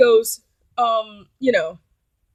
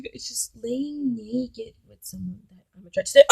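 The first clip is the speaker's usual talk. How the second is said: slow, put-on imitation of him; mock pleading; slower than usual. Date wanting to lie naked, slow mock pleading. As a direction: drag out his needy confession. Repeats date's pleading confession.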